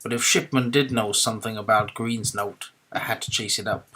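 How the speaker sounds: put-on American accent, a confused cowboy from nowhere in particular. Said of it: "You sound like a very confused cowboy".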